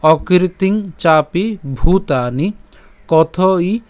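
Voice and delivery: slow, word-by-word Sanskrit recitation; measured model reading of a shloka line; verse recitation. Shown as a demonstration. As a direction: recite carefully with long drawn vowels. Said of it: "আমি আবার যদি প্রথম থেকে উচ্চারণটা করি".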